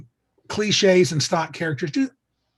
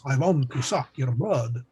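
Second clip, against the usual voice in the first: lightly hammed Dracula accent, slow and lower; cliched Dracula accent; 4 semitones lower, 3 dB quieter, slower than usual. Podcast host mocking a rule against cliched accents, hammed Dracula accent. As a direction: draw it out in a mock Transylvanian accent. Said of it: "Don't use cliched accents".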